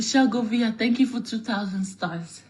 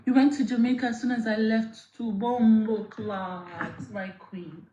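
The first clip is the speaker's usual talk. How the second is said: put-on Jamaican accent. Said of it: "She said".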